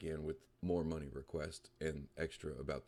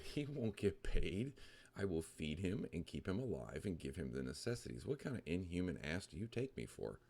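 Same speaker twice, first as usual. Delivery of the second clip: mock upset; 3 semitones higher than usual. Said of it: "You sound upset".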